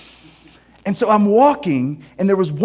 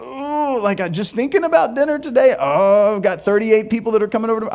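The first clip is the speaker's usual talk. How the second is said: higher, rushed fretting about guests; flustered, racing through the to-do list; mock anxious fretting; 3 semitones higher than usual. Host fretting about thirty-eight dinner guests, mock anxious and rushed. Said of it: "the anxiety is just like".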